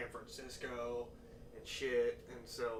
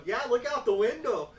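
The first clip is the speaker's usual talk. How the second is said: higher, louder awkward voice; mock drunk dude; 9 semitones higher, 10 dB louder than usual. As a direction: imitate the uncomfortable drunk. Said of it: "he just kept going".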